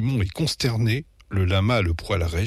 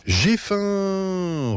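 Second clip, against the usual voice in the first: high, drawn-out hungry roar; sudden roar; 10 semitones higher than usual. A narrator's reading. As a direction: burst out on a long high note. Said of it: "rugit brusquement maman". (rugissement soudain, aigu et traînant)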